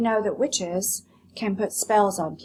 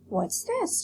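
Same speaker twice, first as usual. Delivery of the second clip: high, sharp question; Lolly's sharp question; 11 semitones higher than usual. Acted. Teacher voicing Lolly as she spots the rabbit, high and sharp. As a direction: snap it out as the rude visitor.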